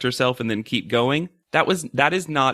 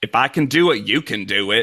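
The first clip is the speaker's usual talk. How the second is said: put-on accent close to New York; 3 dB louder than usual. Quoting a contestant's line, imitating Kayla's sudden odd accent. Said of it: "this accent we have never heard from Kayla before".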